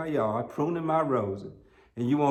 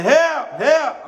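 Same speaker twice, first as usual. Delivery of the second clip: high, loud mock call for help; mock cry for help; 14 semitones higher, 9 dB louder than usual. Neighbor mocking a woman's high loud cry for help. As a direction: squeal it like a scared neighbor. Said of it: "she start hollering".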